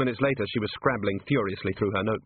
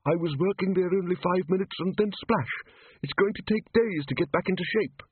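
high, tiny voice of talking dust; a small shrill grumble, pitched well up; shrill little voice; 8 semitones higher than usual. Acted. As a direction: complain like an aggrieved little creature. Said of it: "in a shrill little voice".

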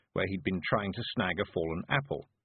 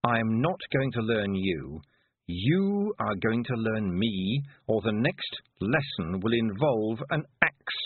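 slow menace; slower than usual. Acted. Threatening the broomstick.

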